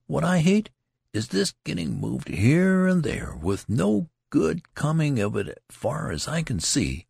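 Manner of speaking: lightly voiced soldier airing a grievance; complaining soldier. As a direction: gripe about the marching.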